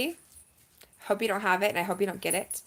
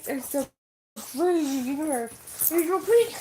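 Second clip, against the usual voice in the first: laughing; 7 semitones higher, 6 dB louder than usual. Real, not acted. Laughing at the dogs.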